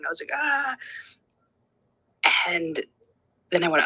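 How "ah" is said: high, restrained "ah" of frustration; retold frustrated cry. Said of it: "I wanted to break everything".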